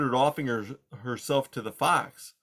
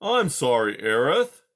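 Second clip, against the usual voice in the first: sniveling; 6 dB louder than usual. Acted. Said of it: "in a voice that was at best sniveling".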